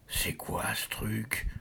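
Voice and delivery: marmonné plus bas et lent; bredouillé. Acted. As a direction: bafouille ta question, inquiet. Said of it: "bredouille le garçon". (garçon inquiet qui bredouille bas)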